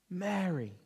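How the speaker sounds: soft, low, tender calling of a name; quiet, intimate address. Acted. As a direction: say the name gently, as if to someone grieving. Jesus gently calls Mary by name.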